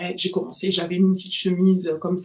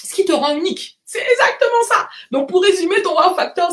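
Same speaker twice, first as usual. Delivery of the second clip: loud, high-pitched excitement; raised, thrilled voice; delighted agreement; 9 semitones higher, 6 dB louder than usual. Real, not acted. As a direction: burst out in approval, laughing. Delighted at a viewer's exact answer.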